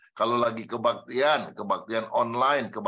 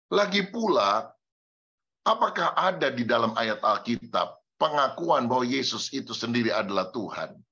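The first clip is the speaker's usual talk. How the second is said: ordinary delivery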